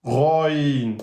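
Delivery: teacher demo of ghayn; throaty letter name. Shown as a demonstration. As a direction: growl "Roin" from the back of the throat. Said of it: "c'est la lettre roin".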